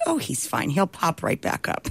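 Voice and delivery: the wife's calm reassurance. Retold or imitated. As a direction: shrug it off gently. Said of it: "The only person calm".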